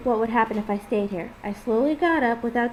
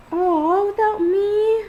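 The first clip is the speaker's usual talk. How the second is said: high, loud disappointed whine; whining; 10 semitones higher, 6 dB louder, much slower than usual. A narrator's reading. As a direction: pout it out like a let-down child. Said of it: "she whines again".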